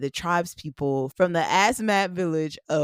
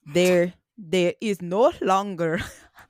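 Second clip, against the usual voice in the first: clumsy, bad fake Dutch accent; 3 semitones higher than usual. Retelling a Dutch minister's statement in a bad Dutch accent. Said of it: "I don't know how to do a Dutch accent".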